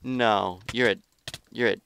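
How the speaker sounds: loud, fed-up yell with a falling end; real angry yell. Real, not acted. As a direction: yell it at the cheater. Furious at hiding player.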